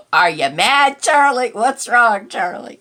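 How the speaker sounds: fond mock-concerned pet talk; playful talk to the cat. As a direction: tease the cat like a baby. Teasing the cat, family quote.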